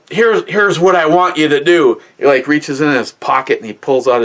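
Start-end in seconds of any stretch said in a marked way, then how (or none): 0.1-2.0 put-on much higher, louder old man's growl; angry grandpa. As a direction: hold back fury and give an order. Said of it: "he goes".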